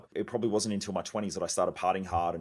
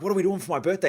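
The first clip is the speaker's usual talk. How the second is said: higher, louder excited imitation of wife; 8 semitones higher, 5 dB louder, faster than usual. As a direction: mimic his wife bubbling over about her birthday. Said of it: "she gets all excited about her birthday".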